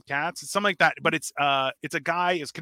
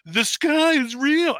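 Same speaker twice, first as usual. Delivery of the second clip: mocking slow voice; 11 semitones higher, 6 dB louder, much slower than usual. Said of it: "because you're still like".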